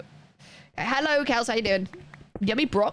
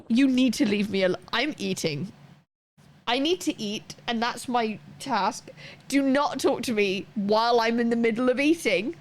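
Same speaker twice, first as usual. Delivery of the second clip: mock-indignant telling-off, only a touch raised; immediately angry. Interrupted diner telling partner not to talk, mock angry. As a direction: put your foot down, mildly cross. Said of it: "I'm immediately angry".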